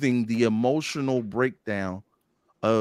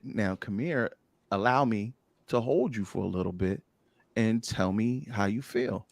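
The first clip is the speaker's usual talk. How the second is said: gentle invitation; 5 dB quieter than usual. Retold or imitated. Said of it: "I said".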